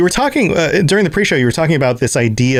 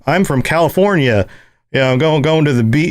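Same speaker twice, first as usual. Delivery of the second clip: put-on California accent; 2 semitones higher than usual. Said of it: "that's not the right accent".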